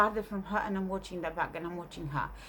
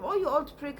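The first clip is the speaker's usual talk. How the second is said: shouting; 7 semitones higher, 3 dB louder than usual. Retold or imitated. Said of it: "starts shouting in Polish".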